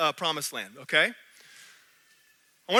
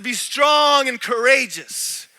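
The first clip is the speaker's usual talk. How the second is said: slow, firm, each word weighted; 3 semitones higher, 4 dB louder, slower than usual. Retold or imitated. Preacher quoting God's command to the congregation, slow and firm. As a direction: say it slowly and resolutely, like a command. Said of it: "He said".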